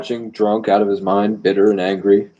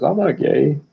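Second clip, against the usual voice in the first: higher-pitched mock denial; mocking quote; 6 semitones higher than usual. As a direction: mimic him in a raised, put-on voice. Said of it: "and then says".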